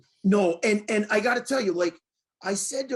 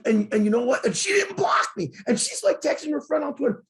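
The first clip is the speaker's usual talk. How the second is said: pitched up and louder, near a shout; gleeful shout as the story peaks; excited; 5 semitones higher, 4 dB louder than usual. Real, not acted. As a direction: burst out with the punchline, voice climbing.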